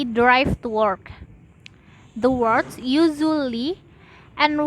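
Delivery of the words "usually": usually said on its own, rising; single stressed example word. Shown as a demonstration. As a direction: lift the word usually out alone. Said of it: "are pronounced louder than the other words".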